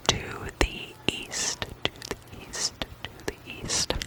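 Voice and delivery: barely audible whisper; whispered phrase dying away; fading whispered echo. Acted. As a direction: repeat it as a very faint ASMR whisper. ASMR repeating a phrase like echo.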